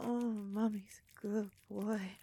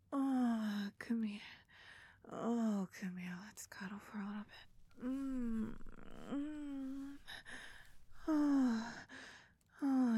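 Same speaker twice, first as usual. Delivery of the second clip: pillow talk. Acted. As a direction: soothe him gently to sleep. Cuddling after climax.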